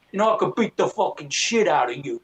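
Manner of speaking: lightly voiced movie Italian tough guy; a hint of a swaggering wiseguy; mock movie tough guy. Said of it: "whenever I see a guy in the movies go".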